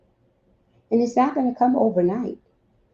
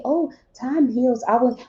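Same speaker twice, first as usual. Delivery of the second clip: higher, quickening mock platitude; quoting others' platitude; 5 semitones higher than usual. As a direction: reel off a well-worn saying as others say it. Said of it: "Now, people say".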